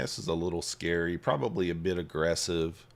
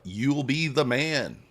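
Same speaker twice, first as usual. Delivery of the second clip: hype; 4 semitones higher, 4 dB louder, slower than usual. Acted. Hyping viewers after code plug.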